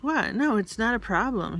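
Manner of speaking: high-pitched incredulous "what", then insist; surprised protest. Retold or imitated. Sister assuring Madeline the ride is fine, surprised protest. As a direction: imitate a sister brushing off an objection. Sister's reply in acted argument.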